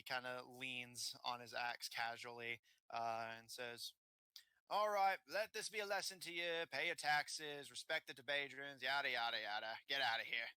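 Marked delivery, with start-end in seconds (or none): 4.7-10.5 high start settling into offhand dismissal; dismissive bandit. Acted. Bandit leaning on axe sends party off, dismissive. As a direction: wave them off as the bandit.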